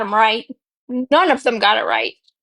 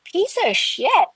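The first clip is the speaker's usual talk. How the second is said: retold angry rant; 5 semitones higher than usual. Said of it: "I was so mad".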